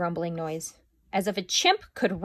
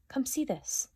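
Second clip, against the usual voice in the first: hushed and high, calling her father over; soft whisper; 6 semitones higher, 7 dB quieter than usual. A narrator's reading. Julia whispering to her dad to come look. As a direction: breathe it out softly. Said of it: "she whispers".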